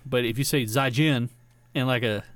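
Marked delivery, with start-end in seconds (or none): 0.6-1.3 zaijian in an American accent. Shown as a demonstration. Showing how goodbye goes wrong, American accent. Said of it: "in, like, an American accent".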